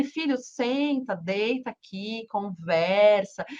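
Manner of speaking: put-on mother inviting her teenage son to lie down and talk, tenderly; tender invitation.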